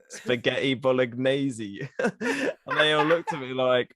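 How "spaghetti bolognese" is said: slow, attempted Welsh pronunciation; Welsh accent. Shown as a demonstration. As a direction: stretch "bolognese" in a mock Welsh accent. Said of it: "in a Welsh accent".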